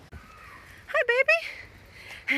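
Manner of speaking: very high cooing. Real, not acted. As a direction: coo up high at the dog. Greeting the dog.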